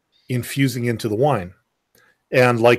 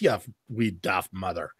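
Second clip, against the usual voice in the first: put-on Irish accent; 6 semitones lower, 9 dB quieter than usual. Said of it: "I can't do accents that well".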